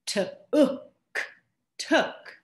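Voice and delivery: teacher modelling a word; modelling took. Shown as a demonstration. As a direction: model "took" for the class to repeat. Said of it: "say this out loud with me".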